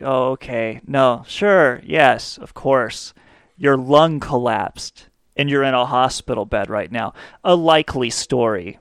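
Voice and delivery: imitating a disbelieving assistant; sceptical tone. Assistant doubting a sick caller's excuse, understated sceptical tone. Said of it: "there was a tone in his voice".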